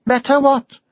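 high Welsh question; Welsh dragon. A narrator's reading. Dragon presses the knight, high Welsh lilt. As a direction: ask sharply in a Welsh lilt.

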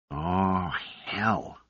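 soft, understated sigh of resignation; resigned sigh. A narrator's reading. Caught by the machine, arms dropping, a resigned sigh. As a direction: let it out quietly, like giving up. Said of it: "He sighed".

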